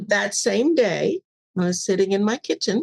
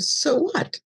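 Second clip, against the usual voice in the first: defiant; 9 semitones higher than usual. Retold or imitated. Retold job plea.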